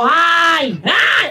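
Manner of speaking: a big, loud, high "Hi! Hi!". Shown as a demonstration. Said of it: "Lakasan mo, sabihin mo".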